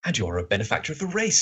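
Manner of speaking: lightly voiced admiring sidekick; a hint of a character voice; Watson. Sidekick praising the detective, lightly acted voice. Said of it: "That's my Watson voice".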